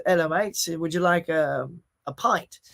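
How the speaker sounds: lightly voiced English barman accent; English bartender. Bartender offering the film crew drinks, English accent. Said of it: "the bartender comes up and he goes".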